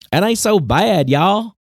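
high, chirpy "ain't so bad, y'all" drawl; goofy positive guy. Podcaster mocking a positivity guy, high and chirpy. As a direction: pitch it way up like a blissed-out hippie. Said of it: "I'm just gonna do this guy".

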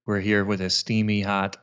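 slow, smooth late-night radio host; sexy radio DJ voice. Pretend. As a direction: purr it like a jazz station DJ. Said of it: "give me your sexiest D J voice".

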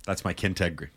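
words pushed through gritted teeth; quiet, through clenched teeth. Pretend. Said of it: "Through gritted teeth".

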